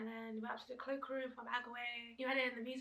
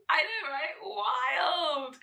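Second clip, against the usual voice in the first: loud, higher exclamation of disbelief; excited exclaim; 4 semitones higher, 15 dB louder, much slower than usual. Real, not acted. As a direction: shout it out, amazed at herself. Reacting to getting home late.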